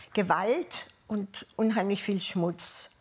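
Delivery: normal talking voice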